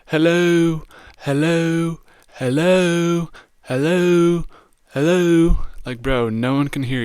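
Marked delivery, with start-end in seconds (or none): 0.1-5.6 high, loud mock calls into emptiness; hammed-up repeated yelling; mock yelling hello. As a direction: call out like he's lost and alone. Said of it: "just going".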